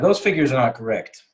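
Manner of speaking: flat blunt statement; blunt and direct. Shown as a demonstration. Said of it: "I would make it a bit more polite".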